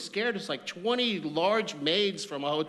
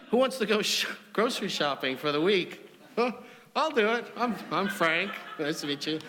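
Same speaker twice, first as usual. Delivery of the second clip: put-on Australian accent; 6 semitones higher, 4 dB louder than usual. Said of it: "I can't do the accent".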